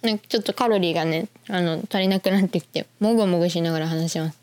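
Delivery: talking while chewing chocolate; mouth full. Real, not acted. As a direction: speak around a bite of chocolate.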